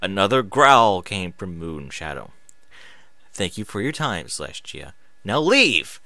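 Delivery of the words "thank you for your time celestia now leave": stern deeper voice. Acted. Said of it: "a deeper voice said sternly".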